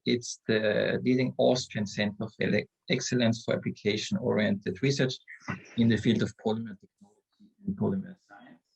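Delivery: distant, faint mic pickup; speaking away from the microphone; far from mic. Real, not acted. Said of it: "we hear you very bad".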